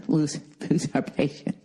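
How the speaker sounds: laughing through the words; breaking into laughter. Real, not acted. Comic losing his own impression of the guide, laughing. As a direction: crack up halfway through the line.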